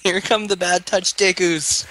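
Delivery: playful announcing. Pretend. Player heralding the Bad Touch Dekus, playful announcing. Repeats the line for effect.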